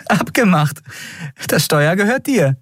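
erhobene, ernste Warnstimme; ernste Kapitänin. Acted. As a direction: eindringlich warnen, mit Gewicht. (Kapitänin warnt Miko ernst, höher gesprochen)

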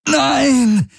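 high anguished shriek. A narrator's reading. Galen screaming under mental attack, high shriek. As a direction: shriek it out in agony. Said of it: "hörte Kirai Galens Stimme kreischen".

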